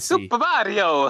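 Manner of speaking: slow, high Mario-style call; silly drawn-out announcer. Acted. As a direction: stretch it out like a game announcer. Echoing the title in a funny voice.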